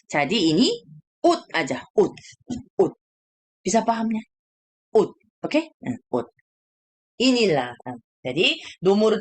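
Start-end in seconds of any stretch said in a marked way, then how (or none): 1.3-2.9 ut, ending in a short held t; correct reading ut. Shown as a demonstration. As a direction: clip ut off at the t. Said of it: "Bunyinya T". (ut dengan t tertahan)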